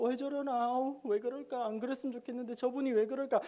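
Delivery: puzzled fretting. Retold or imitated. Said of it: "생각이 자꾸".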